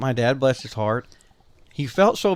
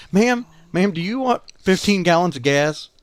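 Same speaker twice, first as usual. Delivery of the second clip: calling out; 4 semitones higher than usual. Retold or imitated. Dad calls to stranger at pump.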